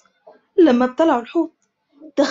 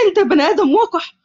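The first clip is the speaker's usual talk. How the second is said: screaming; 6 semitones higher than usual. Acted. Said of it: "عائشة بصريخ".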